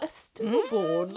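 very drawn-out incredulous repeat; appalled echo. Retold or imitated. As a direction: stretch the word out in disbelief. Retells disbelief at tasteless remark.

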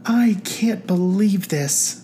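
whispered, slow, near tears; holding back tears. A narrator's reading. Carolyn moved by her friends' plan, tearful whisper. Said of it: "struggled to hold back the tears".

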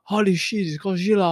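put-on comic Japanese-accented alarm; playful fake Japanese cry; caricatured Japanese accent; mock Japanese. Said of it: "Do a Japanese accent".

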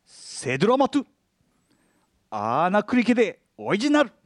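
セドラマトゥ アーナクリケで オリジナル as reversed syllables; backwards speech. Shown as a demonstration. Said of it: "掛け合いながら言ってください".

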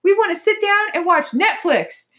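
lightly voiced rude devil, high; a hint of a cranky little devil. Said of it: "the little devil's like".

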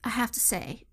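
light Southern belle lilt. Real, not acted. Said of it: "you went, like, Southern Belle there".

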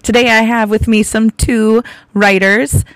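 hoarse from laryngitis; rough, scratchy voice; raspy voice. Real, not acted. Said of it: "so I'm sorry for my raspy voice today".

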